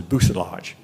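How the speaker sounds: bussillage said "boos-LAHJ", L sounded; old mistaken pronunciation. Shown as a demonstration. Confessing a lifelong habit, bussillage pronounced with a sounded L. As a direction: say bussillage with an audible English L. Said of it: "I knew all my life that was".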